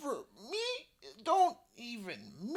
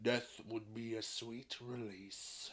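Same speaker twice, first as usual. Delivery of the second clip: dragon voice; 10 dB quieter than usual. Acted. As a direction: sigh it, low and bored. Bored dragon aside.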